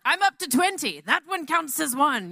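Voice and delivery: high, loud, gleeful boasting tally; mock competitive counting. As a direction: brag about the score like a rival warrior. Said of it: "counting, like".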